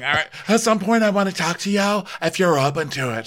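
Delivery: high-pitched, put-on request; imitation high voice, asking for a talk; Lisa voice. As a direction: ask it in a high, hammed-up voice. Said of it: "she's like".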